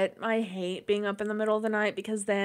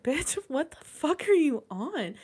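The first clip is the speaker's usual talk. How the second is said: voicing the dog; 7 semitones higher, slower than usual. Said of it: "looked at me like".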